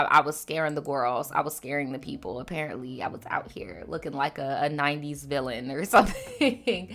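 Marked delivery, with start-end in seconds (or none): 2.4-5.7 whisper. Real, not acted. Gossipy confession aside.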